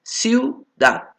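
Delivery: Ciudad said high and set apart; word demo. Shown as a demonstration. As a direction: model Ciudad clearly for the class. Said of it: "tenemos ciudad".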